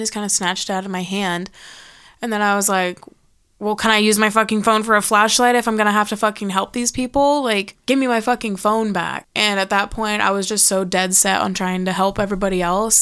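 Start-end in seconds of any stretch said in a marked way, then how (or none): 3.6-9.3 retold exasperated demand, punching the swear words; indignant demand. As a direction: argue back in mild retold anger. Retold demand to get phone back.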